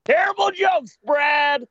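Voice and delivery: high loud playful yell; shout. Real, not acted. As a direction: yell it across the room. Yelling at host.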